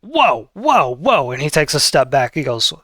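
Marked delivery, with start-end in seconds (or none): 0.0-1.3 startled whoa. Acted. Ghost father startled that his son likes a doppelganger. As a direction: jump back in surprise, whoa.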